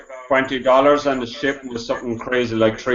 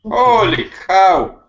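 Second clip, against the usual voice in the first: surprised; 6 semitones higher, 4 dB louder, much slower than usual. Real, not acted. Reaction to ninety-seven dollar postage.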